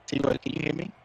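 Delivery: glitchy robotic mic; robotic voice through a broken mic. Real, not acted. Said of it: "Everybody said that my mic sounds robotic".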